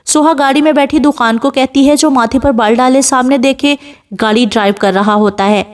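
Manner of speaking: usual speaking voice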